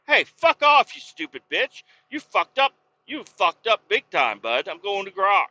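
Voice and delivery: shrieking mock tirade at ChatGPT; mock furious yell. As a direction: blow up at the chatbot in a hammed-up rage. Retelling cursing out ChatGPT.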